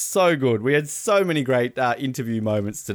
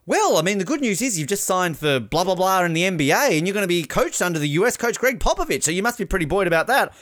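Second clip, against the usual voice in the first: reporter quote; 5 semitones higher than usual. Retold or imitated. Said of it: "our courtside reporter goes".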